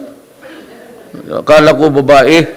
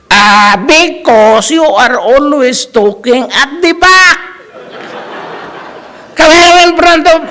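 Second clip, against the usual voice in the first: much higher, slow put-on professor voice with laughter breaking in; mock professor, laughing; 13 semitones higher, 4 dB louder, slower than usual. Professor sending the chatty student to the front, high mocking voice. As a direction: sneer like the professor while cracking up. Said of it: "professor orders him to the front".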